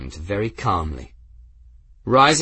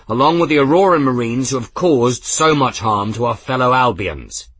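rousing command; 3 semitones higher, 4 dB louder than usual. Acted. Captain rallying his crew.

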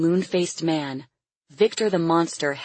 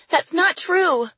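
put-on high, slow, louder child's denial; protesting little girl; 13 semitones higher, 5 dB louder than usual. A narrator's reading. Lily contradicts her captor, protesting. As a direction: deny it in a high little girl's voice.

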